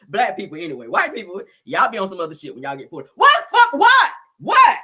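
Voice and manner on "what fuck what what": high, loud indignant "what"; mock outraged challenge; sassy back-talk to a cop; mouthing off to police. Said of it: "That's how y'all talk to the police".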